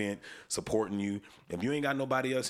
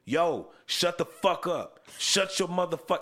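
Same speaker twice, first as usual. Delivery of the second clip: retold raised-voice outburst in a D.C. accent; 7 semitones higher, 4 dB louder, slower than usual. Host imitating his homie hushing a loud crowd, D.C. accent. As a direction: imitate a fed-up friend's D.C. accent, loud and high. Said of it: "he had that D C accent".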